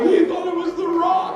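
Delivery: loud, high, laughing jab; mock shout. Dad teasing son about The Rock, loud laughing jab.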